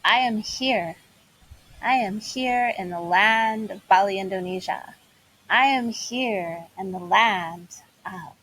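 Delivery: joyful declaration. Shown as a demonstration. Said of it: "and then declare".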